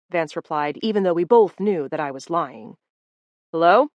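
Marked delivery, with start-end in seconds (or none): 3.5-3.9 loud call from another room. Acted. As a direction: call out to find someone. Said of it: "called from out front".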